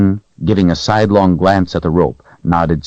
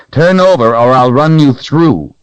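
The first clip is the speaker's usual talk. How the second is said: stern threat; 7 semitones higher, 6 dB louder than usual. A narrator's reading. Richard threatening creature.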